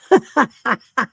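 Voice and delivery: loud real burst of laughter; hard laughing. Real, not acted. Host cracking up over the savage slide, hard laughing. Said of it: "that's why I'm laughing so hard".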